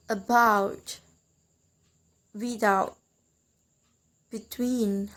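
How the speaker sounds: "about, without, between", each stressed on the second syllable; weight on "-bout", "-out" and "-tween". Shown as a demonstration. Teacher lists prepositions, stressing the second syllable of "about, without, between". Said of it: "we give stress in the second syllable".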